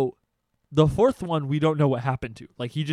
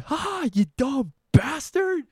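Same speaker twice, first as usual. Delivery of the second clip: mocking laugh; 9 semitones higher, 4 dB louder than usual. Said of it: "I literally laughed".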